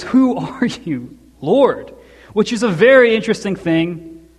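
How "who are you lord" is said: drawn out, slower question to the light; slow wondering Who are you, Lord; slow awed question. Retold or imitated. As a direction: let the question hang in awe. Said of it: "he looks at the light and goes".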